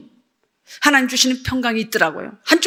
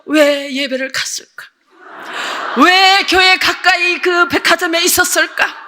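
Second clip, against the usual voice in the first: drawn-out, regretful "why" wail; mock tearful lament; 4 semitones higher than usual. Student regretting going to church, slow acted wailing. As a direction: stretch each question into a put-on lament. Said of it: "울면서".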